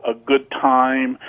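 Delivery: stretched out slowly, in mock quote marks; sarcastic quote. Fan mocking the quarterback's cheery promise, slow and sarcastic. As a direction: drawl it like a hollow press line.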